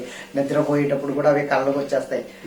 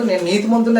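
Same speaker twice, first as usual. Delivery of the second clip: smug self-praise; 7 semitones higher, 6 dB louder than usual. Retold or imitated. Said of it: "indirect గా అంటున్నాడు".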